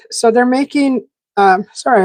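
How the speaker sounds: talking through a bite; chewing while speaking; mouth full. Real, not acted. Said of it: "I have food in my mouth".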